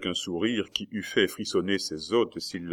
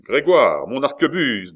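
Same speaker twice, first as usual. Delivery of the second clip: calling the servant; 6 semitones higher, 7 dB louder than usual. A narrator's reading. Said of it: "du même ton qu'il eût dit".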